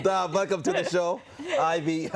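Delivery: hammed-up, faltering Russian accent; attempted Russian accent. Host welcoming viewers to the show, faking a Russian accent. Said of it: "I can't do the Russian accent".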